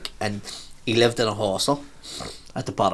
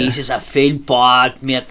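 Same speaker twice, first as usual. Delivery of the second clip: put-on louder, slow drunk lament; imitating a drunk passenger getting louder; 5 dB louder, slower than usual. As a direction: let the guilt spill out louder. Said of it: "and he was getting louder".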